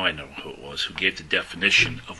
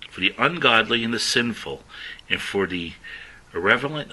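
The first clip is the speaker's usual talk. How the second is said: emphatic scripture reading. Acted. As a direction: declaim each list item. Reads Amplified passage forcefully.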